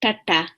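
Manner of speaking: "tata" said with the tongue set back; retroflex T. Shown as a demonstration. Teacher repeating the underlined T, retroflex. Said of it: "is, is a little bit back".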